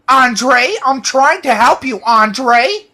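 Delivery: high, loud hammed-up scolding officer; shrill-pitched mock cop rant; mock officer yelling. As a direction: yell at him like an exasperated cop. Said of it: "she's like".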